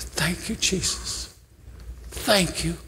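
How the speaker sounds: hushed, tender retold thank you. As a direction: breathe the thanks, overcome. Retelling Vins receiving the Bible.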